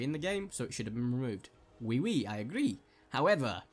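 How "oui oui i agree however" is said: playful mock French accent. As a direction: slip into a French accent for fun. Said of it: "I did a French accent".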